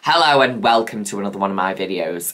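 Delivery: mock low voice. Mocking her old self's greeting in a low grumpy voice. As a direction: drop the voice like she's pissed off. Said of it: "My voice is really low and I'm like".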